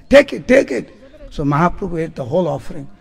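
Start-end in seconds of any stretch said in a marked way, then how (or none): 0.1-0.9 raised voice, laughing through it; laughing offer. Retold or imitated. Girls pushing the offering on Mahaprabhu, laughing. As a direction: push the offering on him, giggling.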